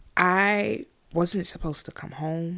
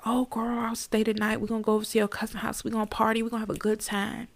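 higher, fast, excited party voice; carefree party girl; 5 semitones higher, much faster than usual. Retold or imitated. Imagined younger self agreeing to party, higher and fast. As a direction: hype it up like a reckless teen. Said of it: "you would think I'd be like".

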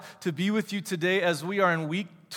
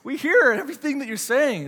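high, loud mock outrage at a stranger; exasperated call-out; 8 semitones higher, 6 dB louder than usual. Pastor imitating himself scolding a speakerphone talker, high and loud. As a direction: pitch it way up, fed-up and loud.

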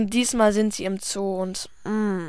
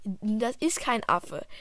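hushed whisper; soft slow whisper to a noisy kid; 6 dB quieter, slower than usual. Acted. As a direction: whisper so the keeper won't hear. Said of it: "sei nicht so laut".

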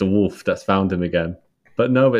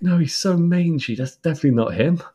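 high, quick dismissive Goldie voice; mock Goldie; 8 semitones higher than usual. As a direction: brush him off high and fast. Voicing Goldie dismissing Puss.

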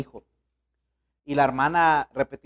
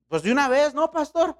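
mother's eager plea; 9 semitones higher than usual. Retold or imitated. Mother urges pastor to spank.

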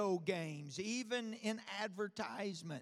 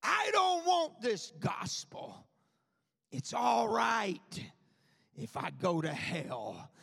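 mock-defiant young man, higher and louder; preacher voicing a young man's text rejecting the gospel; 4 semitones higher, 4 dB louder than usual. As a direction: push the preacher away like a stubborn kid.

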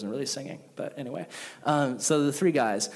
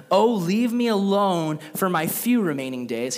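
anguished lament; 4 semitones higher, 3 dB louder than usual. Retold or imitated. Job complaining to God.

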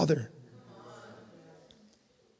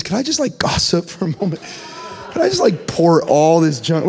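mock pleading. Someone asking a friend to let them gossip, mock pleading. Acting out disguised gossip request.

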